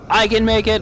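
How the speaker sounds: high, loud frantic shout; panicked loud cry of hope; desperate yell. Retold or imitated. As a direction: yell it while fleeing.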